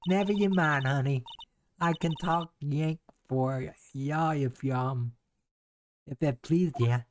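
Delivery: lightly voiced southern gal, feisty; a Southern lady bristling at strangers; folksy country woman. Country woman warning off the investigators, feisty Southern accent. Game character voiced by streamer.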